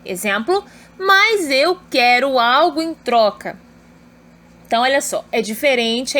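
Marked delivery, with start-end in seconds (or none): 1.0-3.6 slow, emphatic "Mas eu quero algo em troca"; exclamative intonation. Shown as a demonstration. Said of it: "entonação exclamativa". (entonação exclamativa em "Mas eu quero algo em troca")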